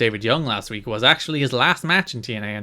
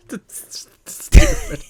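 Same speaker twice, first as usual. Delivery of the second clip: squeaky mock voice; 7 dB louder, much slower than usual. Mocking the match.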